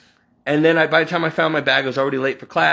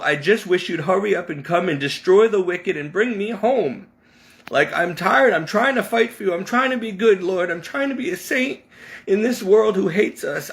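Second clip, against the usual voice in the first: pleading prayer; 4 semitones higher than usual. Retold or imitated. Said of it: "I yelled at the Lord".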